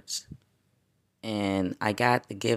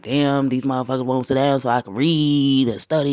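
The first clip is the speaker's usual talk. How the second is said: frustrated; 4 semitones higher, 8 dB louder than usual. Retold or imitated. Retelling frustration at kids.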